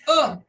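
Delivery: "Ah" with mouth and tongue relaxed; relaxed schwa-like "Ah"; relaxed short u. Shown as a demonstration. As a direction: open "Ah" said loose and short. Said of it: "você fala assim".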